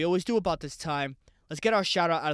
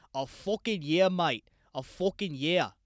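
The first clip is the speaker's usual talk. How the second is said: put-on a loose, half-hearted Irish-sounding accent on "A fucking year, mate"; bad Irish-ish accent. Host griping about a year-long wait in a bad Irish-ish accent. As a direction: toss off a clumsy Irish-ish accent for a joke. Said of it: "the most terrible accent I think I've ever done".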